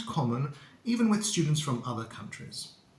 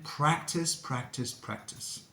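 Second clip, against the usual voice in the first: each practice softer until the last is whispered; fading out; 6 dB quieter, slower than usual. Shown as a demonstration. Teacher fading out while urging learners to practise. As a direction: let each practice fade away to a whisper. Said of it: "fading repetition".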